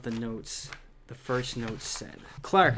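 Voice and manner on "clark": higher, louder impatient call; narrated impatient shout. A narrator's reading. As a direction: call out sharply, out of patience. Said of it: "I shouted impatiently".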